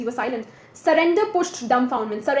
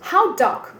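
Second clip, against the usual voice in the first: landlady's question; 4 semitones higher than usual. Acted.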